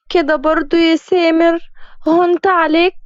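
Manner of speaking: high, pleading whine; whiny girlfriend. Acted. Fiancée whining to Samer, high pleading voice. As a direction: wheedle him like a hurt girlfriend.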